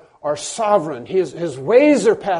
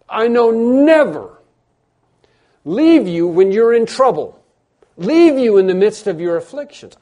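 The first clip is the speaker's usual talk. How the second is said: loud, raised-pitch preaching proclamation; God shouting; 5 semitones higher, 7 dB louder than usual. Acted. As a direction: proclaim the promise at full force. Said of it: "it's God shouting as loud as he can".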